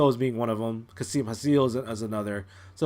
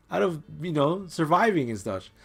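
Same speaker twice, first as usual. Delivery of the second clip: high, put-on aggrieved voice; indignant complaint; 7 semitones higher than usual. Master to servant who overlooked him, high indignant complaining. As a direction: whine in mock indignation, pitched up.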